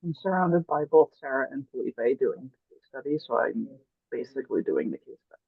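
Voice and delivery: muffled. Real, not acted. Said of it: "you were kind of muffled".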